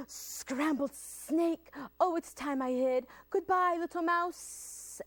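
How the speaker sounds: a startled snake drawing out the farewell; alarmed snake. Acted. Reader voices Snake fleeing from mouse, alarmed.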